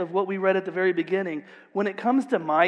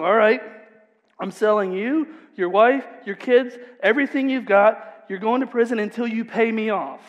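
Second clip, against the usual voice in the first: king sternly demanding payment, a bit louder; 3 semitones higher, 4 dB louder than usual. Acted. King to indebted servant, stern and demanding. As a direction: lay down the sentence like a harsh master.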